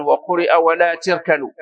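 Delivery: تركنوا with an "i" after the t; kasra reading. Shown as a demonstration. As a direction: say تركنوا as "tirkanu". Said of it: "ولم يقل بالكسر".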